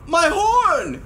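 gulped. Acted. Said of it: "he gulped".

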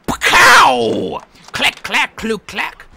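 loud high "pacow", then clacking; mock gunfire noises. Player about to shoot the gun, mouthing gunfire noises. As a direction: voice the rifle shot and reload clacks.

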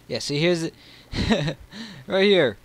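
high, loud, laughing excitement; excited. Real, not acted. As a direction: blurt it out thrilled. Excited find in game.

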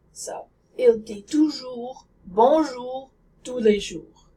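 "toujours", "bonjour", "jours" with rounded French oo sounds. Shown as a demonstration. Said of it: "Try saying this sentence".

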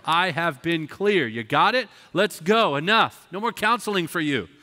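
mock a pastor who has run out of patience; exasperated scolding. Pastor losing patience with the doubter, exasperated scolding. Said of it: "hit 'em upside the head with that study Bible and go".

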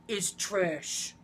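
lightly voiced Trump jab; a hint of Trump sneering; light Trump insult. Friend insulting Rosie O'Donnell as Trump. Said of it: "that's my Trump impression".

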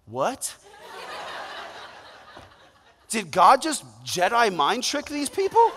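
laughing, rising astonished question; stunned pastor retelling his surprise; amazed disbelief. Retold or imitated. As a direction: marvel at it through a laugh. Amazed reaction retold.

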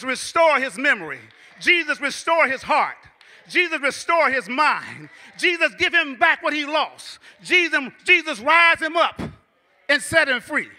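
builds into a loud pleading prayer; fervent prayer. Retold or imitated. Imagined aunt praying for cousin, building fervent plea. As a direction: pray it out, rising to a cry. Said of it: "I would hear her saying".

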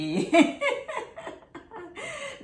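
loud high-pitched laugh at herself. Real, not acted. Laughs at her accent. (หัวเราะเสียงสูงดัง)

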